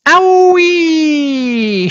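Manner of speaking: very high, loud squawking shriek; startled hen squawking. A narrator's reading. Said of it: "shrieked the hen".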